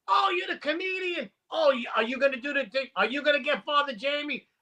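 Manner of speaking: quick, keen retold questions; eager imitated fans. Next group of golfers meeting the comedian, eager.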